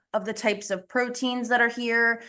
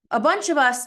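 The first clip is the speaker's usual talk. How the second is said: breathless and panting a little; catching her breath between words; 3 semitones higher, 4 dB louder than usual. Real, not acted. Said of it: "I'm out of breath".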